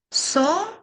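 sing-song Со-ба-ка broken into syllables. Shown as a demonstration. Teacher to kids, counting Со-ба-ка syllables. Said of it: "по складах".

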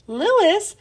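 high, disbelieving yelp of a name; a kid who can't believe the idea; surprised exclaim. Acted. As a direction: toss the name back in shock. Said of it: "exclaimed Joy".

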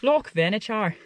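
attempted Scottish accent on the loch's name. Shown as a demonstration. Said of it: "say it with a Scottish accent".

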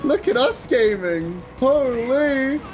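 high-pitched, giddy hype; hyped up. Acted. Streamer greets a viewer and hypes the gaming, high excited squeal.

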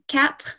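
quatre ending in a French R. Shown as a demonstration. Teacher showing the class number four, quatre with French R. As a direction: finish quatre on a light French R. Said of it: "with the R again".

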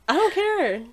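high, loud laughing refusal; loud protest. Real, not acted. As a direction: shout it, giddy.

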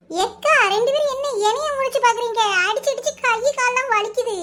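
aggrieved complaint. Acted. Woman tired from hitting, complaining to the others, aggrieved. Complains of aching after the fight.

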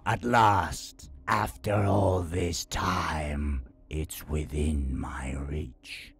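slow, hungry troll voice; troll king. Acted. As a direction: savour it, then whisper. Burger Kungan voiced.

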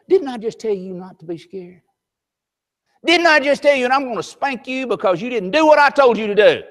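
building from stern to a loud, high scolding; angry father. Retold or imitated. Father threatens his scared daughter, rising to loud anger. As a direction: scold harder and harder, switch in hand. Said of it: "break a little limb off... and say".

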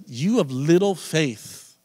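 sarcastic telling-off. Retold or imitated. Preacher imitating Jesus telling off the disciples, sarcastic. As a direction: stretch it out as a sarcastic rebuke. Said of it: "more of a sarcastic".

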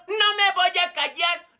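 slow, stretched-out defiant cry; defiant yelling. Acted. Regina refuses to hush for the teacher, defiant yell. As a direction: drag out the refusal stubbornly. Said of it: "También usted se la pasa gritando".

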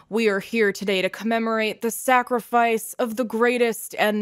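loud, grand ceremonial address; formal speech. Acted. Guild head honoring the fallen hero, loud and ceremonious. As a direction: read it like a solemn eulogy.

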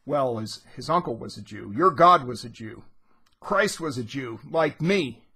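loud retold angry shout on Your God; acted rant, peaking loud mid-way; seething Bloom. Bloom shouting back at the citizen, retold angry rant. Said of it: "Bloom is, is seething".

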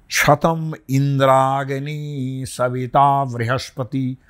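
slow Sanskrit chant; mantra recitation. Shown as a demonstration. Teacher chanting a Vedic blessing, slow and measured. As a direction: intone the verse slowly.

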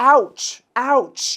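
high, loud mock cry of pain; demo pained cry. Shown as a demonstration. Teacher showing how foreigners cry out in pain, pained exclamation. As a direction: exclaim as if suddenly hurt. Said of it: "เวลาฝรั่งเขาเจ็บเนี่ย เขาจะอ".

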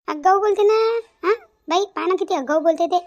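loud, heated complaint to the other women; angry outburst. Acted. Quarrelling neighbour loudly calls Subhadra cheeky, angry outburst. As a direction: raise the voice in indignation.

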